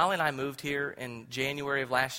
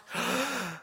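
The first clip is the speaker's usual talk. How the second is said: sharp gasp; 11 semitones higher than usual. Retold or imitated. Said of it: "I literally cried out".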